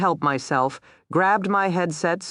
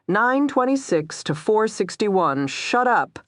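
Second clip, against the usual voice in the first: hissed; 6 semitones higher than usual. A narrator's reading. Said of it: "I hissed".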